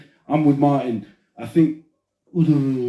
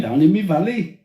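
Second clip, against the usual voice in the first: put-on Welsh accent; 4 semitones higher, 3 dB louder than usual. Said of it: "Welsh is nice".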